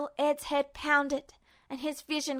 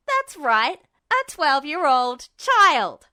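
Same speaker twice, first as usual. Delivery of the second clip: loud, slow, defiant shout; Ed's shout; 6 dB louder, slower than usual. A narrator's reading. Ed shouts back at Justin, loud and slow. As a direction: throw it back in his face. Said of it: "Ed shouted".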